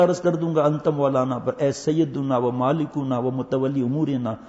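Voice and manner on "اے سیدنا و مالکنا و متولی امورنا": slow prayer recitation. Acted. Recites supplication slowly.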